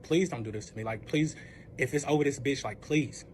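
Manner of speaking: low, subdued begging; understated retelling of crying and begging; retold tearful plea. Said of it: "I'm literally sitting here crying".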